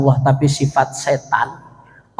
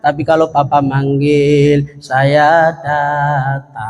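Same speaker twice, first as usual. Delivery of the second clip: put-on Solo accent; slower than usual. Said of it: "pakai nada kayak orang Solo".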